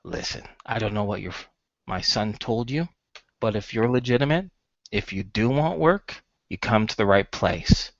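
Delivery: mildly soothing father; lightly acted calm reassurance to a customer. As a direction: start soft and calm, with a slight smile. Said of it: "gives a calm smile, and he says".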